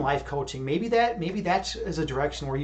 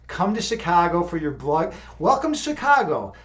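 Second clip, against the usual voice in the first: mock tough Chicago welcome; 3 dB louder than usual.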